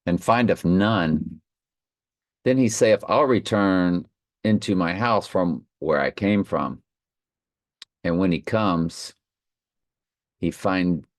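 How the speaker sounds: measured Bible reading voice; scripture reading. Acted. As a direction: read the verses with solemn weight. Reads scripture aloud.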